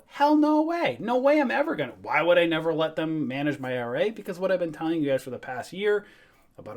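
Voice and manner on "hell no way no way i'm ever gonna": emphatic refusal. Real, not acted. Emphatic refusal to let TD manage.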